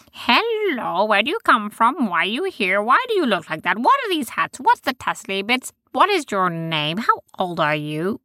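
pepper them with eager questions; curious creature voices. Acted.

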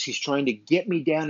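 normal talking voice

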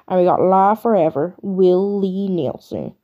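put-on a half-hearted American country accent, slowed; mock country accent. Host attempts a country accent for a nominee, mock country twang. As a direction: podcaster trying on a bad American country accent. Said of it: "I tried to do a Ray country accent".

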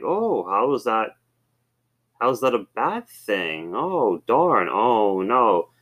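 slow, mock dismay; joking sarcasm. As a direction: pretend to be upset, clearly not. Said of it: "And I just jokingly said".

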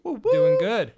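high, loud squeak; squeaky high voice. Acted. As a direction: pop it out in a squeaky falsetto. Jokey reply to co-host.

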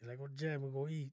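casual attempt at Pidgin; Pidgin accent. Friend having a go after a request, Pidgin accent. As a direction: try the question in Pidgin. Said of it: "Or do Pidgin".

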